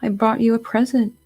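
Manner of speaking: sniffling Piglet. Retold or imitated. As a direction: play a timid, sniffly confession, lightly. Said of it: "poor Piglet starts sniffing".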